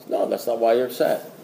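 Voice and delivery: low, soft, unbudging sponsor; imitating an unruffled old-timer; calm contradiction. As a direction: quietly correct them, dropping pitch and volume.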